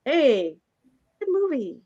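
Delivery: loud, mock-friendly store clerk; a loud, jokey imitation of the video store clerk. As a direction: call it out like a cheery, clueless clerk. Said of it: "the clerk was like".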